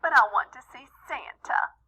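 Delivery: a touch of a whining little brother; whining boy. Acted. Patrick begging to see Santa, mild whine. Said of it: "Patrick said with a whine".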